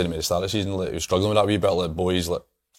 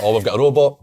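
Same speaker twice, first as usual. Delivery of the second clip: laughing mock sarcasm; 3 dB louder than usual. Mimics sarcastic coach, laughing.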